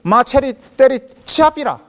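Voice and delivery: loud, high Gyeongsang dialect outburst. Shown as a demonstration. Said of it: "경상도 사투리로".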